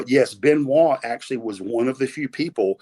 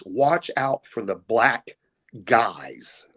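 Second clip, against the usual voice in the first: misheard Canadian phrase; much slower than usual. Shown as a demonstration. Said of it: "what I heard was".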